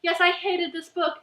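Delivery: hammed-up book bashing; mock rant reviewer. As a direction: act out a gleeful hater. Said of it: "making a rant review like".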